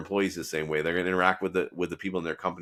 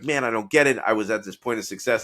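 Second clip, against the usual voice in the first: mildly upset retelling, higher pitch; higher, lightly acted exasperation; 3 semitones higher, 4 dB louder than usual. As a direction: imitate a man upset at his setback. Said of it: "they're very upset".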